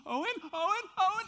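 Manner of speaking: high, loud frantic calling; retold frantic call for his son. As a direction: shout for the lost kid across the beach. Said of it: "And I'm like".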